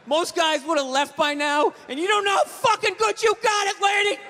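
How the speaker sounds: lightly voiced griping dad; dad's catchphrase. Comic voicing his dad scolding mom, mock rant. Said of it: "one of his catchphrases".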